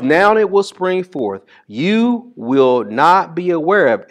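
high, loud, slow scripture proclamation; building preacher's cry; preaching. Acted. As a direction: proclaim it to the congregation.

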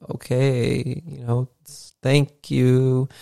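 meek, halting politeness; acted nervousness. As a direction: imitate a guest timidly accepting. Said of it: "super nervous the entire time".

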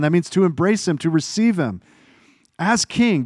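loud, rising preacher's exhortation; preaching at full force. Acted. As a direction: drive the point home to the church. Preacher building to climax.

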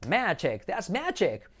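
"magic" as MEH-jek; short e and hard j in "magic"; pronunciación correcta. Shown as a demonstration. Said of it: "la I como una E". ("magic" dicho «médchek»)

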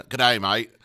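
put-on playful, loud stock Australian accent; mock Australian accent. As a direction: toss off a jokey Australian greeting. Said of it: "an Australian accent".

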